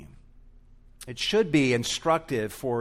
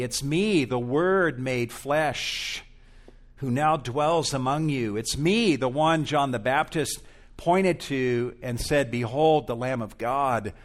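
ringing, louder declaration in Jesus' voice; proclaiming as Jesus; 4 dB louder than usual. Acted. Jesus declaring himself to the crowd, loud and proclaiming. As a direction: announce yourself to the crowd with force.

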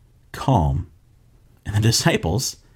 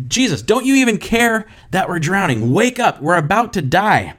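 mild, higher-pitched panicked plea; shouting over a storm; 6 semitones higher than usual. Acted. Disciples waking Jesus in the sinking boat, mildly shouted plea. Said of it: "they're shouting over the storm".

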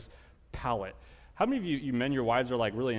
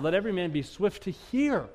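rising higher and louder to a climax; building preaching; 6 semitones higher, 5 dB louder than usual. Acted. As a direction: climb with each phrase into a shout. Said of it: "building scripture recitation".

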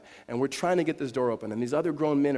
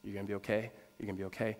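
very soft, low murmur of comfort; imitated whispering; 5 semitones lower, 10 dB quieter than usual. Mom holding her injured son, imitated whispering. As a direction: repeat it softly, as if into an ear. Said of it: "she's just whispering in his ear".

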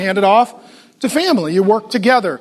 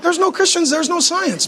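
mock bafflement, pitched higher and softer; puzzled consumer; 5 semitones higher, 3 dB quieter than usual. Joking about grape nuts to the congregation, mock puzzled. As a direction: play it like someone staring into a cereal box. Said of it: "I'm like".

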